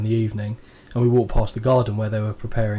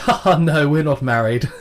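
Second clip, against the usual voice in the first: lightly put-on posh English accent; 3 semitones higher, 4 dB louder than usual. British guest answering an American lady, mildly posh English accent. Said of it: "it's very posh".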